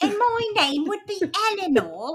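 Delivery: put-on very high-pitched, very old lady voice. Inventing a character on the podcast, speaking as Eleanor's ninety-five-year-old voice. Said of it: "I would always sound like this. I'm like ninety-five".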